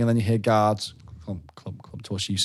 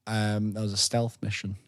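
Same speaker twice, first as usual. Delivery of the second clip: whispered, hushed and secretive; whispered stealth mission; 6 dB quieter than usual. Pretend. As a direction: breathe it like sneaking.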